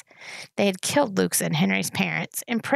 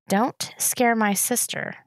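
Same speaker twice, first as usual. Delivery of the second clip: steady voice; 3 semitones higher, slower than usual. Acted. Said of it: "trying to keep his voice steady".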